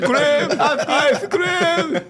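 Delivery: put-on high, loud, thickly accented English; bad English accent. Joking after a friend's jibe at bad English, loud accented parody. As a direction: belt out clumsy foreign-accented English, hammed-up. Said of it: "tipo o inglês do, do Bolsonaro".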